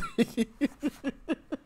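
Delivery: soft, wheezing run of laughter; helpless laughing fit. Real, not acted. Picturing him all discombobulated, helpless laughter. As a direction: laugh until there is no air left. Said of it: "I'm laughing so hard".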